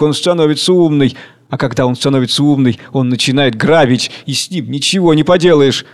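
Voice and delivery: a lightly voiced old man working himself up; ranting orator. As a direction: build a bitter speech against books. Orator hating books.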